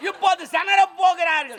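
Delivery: emphatic announcer-like call; mock-formal play-by-play; mock live commentary. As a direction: announce the next step to a crowd.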